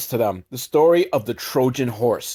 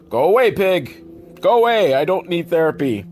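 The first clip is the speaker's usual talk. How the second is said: annoyed shooing; 4 semitones higher than usual. Acted. Dolph to the pig following him, exasperated. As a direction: shoo away a pest, pleading and irritated.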